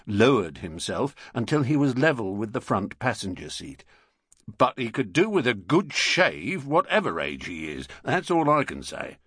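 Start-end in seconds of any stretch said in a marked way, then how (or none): 4.5-9.2 lightly voiced London bobby; london policeman. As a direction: grumble like a beat copper.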